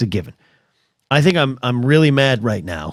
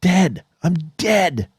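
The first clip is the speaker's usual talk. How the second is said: mock dread; 4 semitones higher than usual. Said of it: "I'm thinking".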